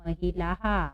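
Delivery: "महिलाहा" with the visarga as a full हा; teacher sounding out "महिलाहा", long आ echoed after ह; visarga demonstration. Shown as a demonstration. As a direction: end "महिलाहा" on a voiced हा. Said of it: "क्या पढ़ेंगे हम इसको?".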